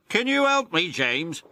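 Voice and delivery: high, hopeful little engine voice; pleading Percy. Acted. Percy asking James for help, high hopeful voice. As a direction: ask a friend nicely.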